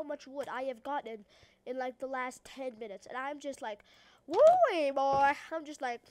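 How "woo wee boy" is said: hyped whoop. Acted. Player celebrates a huge wood haul, hyped whoop.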